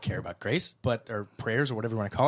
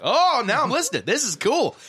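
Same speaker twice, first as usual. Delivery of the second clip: high, eager mock interest; mock excitement; 9 semitones higher than usual. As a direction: suddenly perk up as if impressed. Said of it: "I'd be like".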